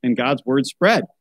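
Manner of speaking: put-on reading a picture book aloud to children; story narration. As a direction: tell it like a bedtime Bible story.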